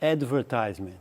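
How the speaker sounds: advertisement stressed on the third syllable, with a long i, "adverTIZEment"; American advertisement. Shown as a demonstration. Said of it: "diferença de som".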